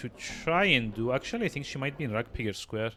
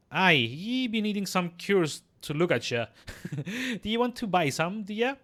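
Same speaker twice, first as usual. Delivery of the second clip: put-on teasing old midwife; 7 semitones higher than usual. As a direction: offer your cures like a teasing crone.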